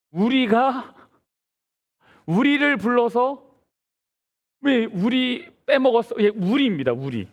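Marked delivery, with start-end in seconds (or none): 0.1-3.4 우리 pitched high at the head of each phrase; stress on 우리. Shown as a demonstration. Preacher showing the congregation the emphasized word, 우리 stressed high. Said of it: "여기서 가장 많이 강조된 단어는 뭐냐면 우리입니다". 4.6-6.2 high-pitched complaint leaning on 우리; stress on 우리. Acted. Preacher voicing the left-out tribe, 우리 stressed high. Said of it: "단어는 뭐냐면 우리입니다".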